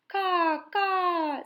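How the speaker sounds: high crow cries; crow's caw. A narrator's reading. Pellegrina crow mocking Edward, high caws. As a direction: call out like a crow. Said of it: "said the Pellegrina crow".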